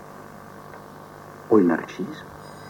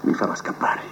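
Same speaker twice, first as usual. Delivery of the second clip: whisper; 7 dB quieter than usual. Acted. Prisoner whispering his escape plan.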